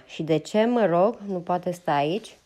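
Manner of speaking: an indignant woman firing a question back at a stubborn man. Acted. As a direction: challenge him, hands on hips. Ma confronts Ross indignantly.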